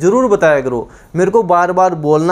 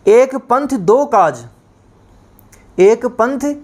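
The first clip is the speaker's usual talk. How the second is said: slow proverb announcement; 4 semitones higher, slower than usual. Shown as a demonstration.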